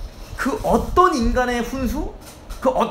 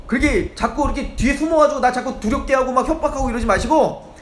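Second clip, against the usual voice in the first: indignant demand; 3 semitones higher than usual. Acted. Job demanding God come out.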